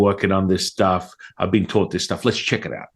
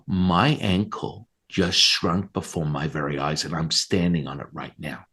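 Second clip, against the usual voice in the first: awed friend voice; 3 semitones lower, 3 dB quieter than usual. Retold or imitated. Friend amazed, voiced slowly.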